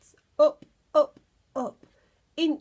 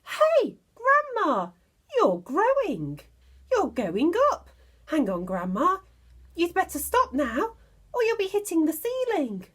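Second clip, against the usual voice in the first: put-on high, loud alarmed boy's shout; a boy yelling up at his growing grandma; 8 semitones higher, 5 dB louder than usual. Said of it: "George gave a jump and shouted".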